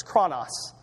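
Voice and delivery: chronos, stressed on the first syllable; teaching the Greek word chronos. Shown as a demonstration. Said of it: "One of the words".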